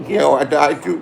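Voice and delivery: amused, chuckling through it; laughing. Real, not acted. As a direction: laugh off the rumor. Laughs at rumor of his death.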